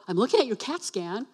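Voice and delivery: lively, bouncing pitch on the scan news; mock upbeat announcement. Shown as a demonstration. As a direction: pretend it's thrilling news. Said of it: "He didn't go".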